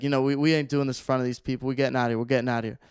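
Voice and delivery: quick retold street talk; talking so fast. Stranger hurries driver away from onlookers, retold fast talk. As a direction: rattle it off fast, playing it cool. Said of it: "he's talking so fast".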